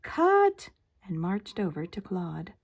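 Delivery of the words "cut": a sudden sharp yell of cut; shouted. A narrator's reading. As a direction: bark it out loud and high. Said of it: "someone shouted".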